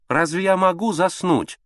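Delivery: high, slow petulant whine; capricious voice. A narrator's reading. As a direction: whine like a spoiled lady. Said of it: "капризным голосом ответила". (капризным голосом, протяжно)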